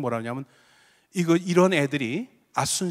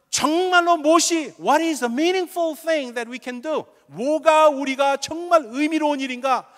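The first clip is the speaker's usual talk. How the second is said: slow emphatic preaching; 10 semitones higher, 4 dB louder, much slower than usual. Real, not acted.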